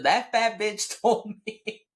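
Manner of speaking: mock-furious quote at husband; retold outburst. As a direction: throw it back at him, furious. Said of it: "I said".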